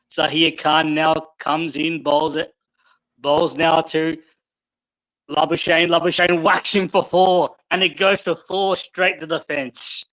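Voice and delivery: lightly done play-by-play commentator; cricket commentary. Shown as a demonstration. Showing doubting friends cricket commentary, measured play-by-play. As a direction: call the delivery like a cricket commentator. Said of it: "I'm gonna do a little bit of cricket commentary".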